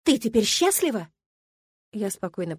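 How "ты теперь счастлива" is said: higher, accusing question; angry taunt. A narrator's reading. Milena rounds on her calm rival, angrily taunting. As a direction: fling it as a bitter accusation. Milena furiously confronts the narrator.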